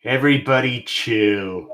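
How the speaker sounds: villain one-liner, lightly voiced; a hint of Mr. Freeze; Mr. Freeze impression. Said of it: "Pretty good impression".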